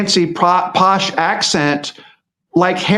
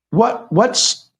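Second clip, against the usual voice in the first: mock-puzzled inner voice, a little higher; half-acted confusion, searching for the point; baffled; 3 semitones higher than usual. Listener puzzling over Harry's speech, mildly bewildered.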